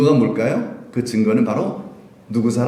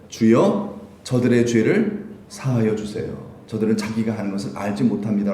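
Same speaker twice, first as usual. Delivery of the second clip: forgiving prayer; 3 semitones lower than usual. Retold or imitated. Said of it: "용서하며 오히려 축복을".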